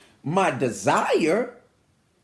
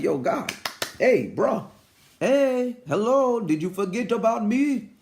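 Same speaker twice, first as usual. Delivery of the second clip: mock calling out to a friend, stretched into higher hellos; casual appeal to God; 3 semitones higher than usual. Preacher asking God if he forgot him, casual mock nagging. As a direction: casually hail God like a buddy who forgot you. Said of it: "like you would normally talk to a person".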